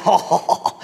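drawn-out "oh" through a laugh; imitated laughing. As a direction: mimic a friend laughing at you. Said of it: "he started laughing".

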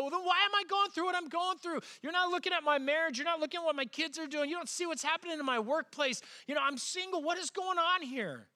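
imagined churchgoer griping to God, high and whiny; exasperated complaint. Retold or imitated. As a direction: throw up your hands and gripe. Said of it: "You go".

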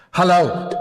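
hello sent far off from the speaker; thrown voice. Shown as a demonstration. Ventriloquist showing kids a thrown voice, distant. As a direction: throw the voice across the room. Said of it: "I'd better do that for you today".

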